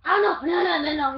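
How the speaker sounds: frightened cry of no; panicked cry. Real, not acted. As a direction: panic as the seeker gets close. Seeker almost finds him.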